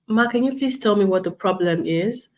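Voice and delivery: polite, even and calm; patient, courteous customer service voice; measured tone. Shown as a demonstration. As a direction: ask gently, keeping the tone in check. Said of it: "That is me measuring my tone".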